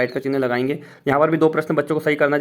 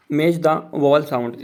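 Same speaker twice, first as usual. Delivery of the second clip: very slow, word by word; reading out slowly; much slower than usual. Shown as a demonstration. Teacher reading the worksheet heading to colleagues, very slow.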